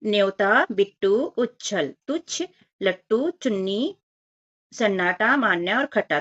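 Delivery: put-on each word read out separately for children; reading word list aloud. Shown as a demonstration. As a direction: model each word slowly for the class. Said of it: "तो हम पढ़ लेते हैं".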